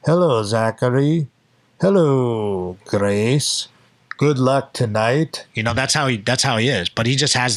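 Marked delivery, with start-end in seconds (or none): 0.1-5.5 slow, put-on deep-voiced man; Murillo's deep voice. Friend greeting two fighters before the match, mock deep voice. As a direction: imitate a friend's famously deep, drawn-out voice. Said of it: "his voice is like this".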